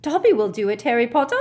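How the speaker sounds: high, loud elf squeak; Dobby. Acted. House-elf volunteering for Harry Potter's job, eager squeak. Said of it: "squeaked Dobby".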